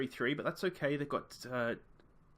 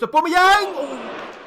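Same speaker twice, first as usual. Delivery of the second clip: high loud shout at the chance; near-miss shout; 15 dB louder, much slower than usual. Real, not acted. Gamer yelling at his striker's near miss. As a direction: yell the name as the shot flies.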